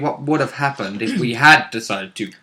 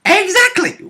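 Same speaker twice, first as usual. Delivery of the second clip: emphatic; 4 dB louder than usual. Real, not acted. Emphatic agreement.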